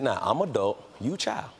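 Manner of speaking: low stern then a sharp shout. Retold or imitated. Grandmother laying down the law to her grandson. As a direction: lay down the law, end in a shout. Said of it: "I said".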